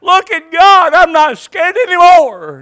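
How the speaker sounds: put-on a child's awe turning to relief; excited little girl. Little girl seeing God's cloud, loud and high with joy. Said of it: "And she goes".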